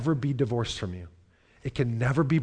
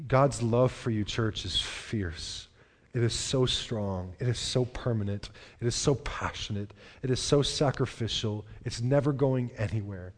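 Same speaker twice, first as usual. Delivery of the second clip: tender reassurance; 3 dB quieter than usual. Real, not acted. Pastor assures church of love.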